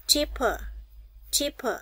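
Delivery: cheaper with the final er as a short uh; schwa ending. Shown as a demonstration. Teacher drills class on cheaper, final uh. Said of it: "Các bạn để ý những âm này".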